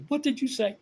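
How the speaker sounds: put-on a shocked young woman demanding he repeat it; indignant. Woman offended by pickup line.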